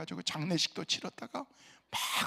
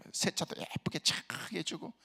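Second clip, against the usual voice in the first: whisper; 3 semitones lower, 6 dB quieter, slower than usual. Real, not acted. Aside about washing car.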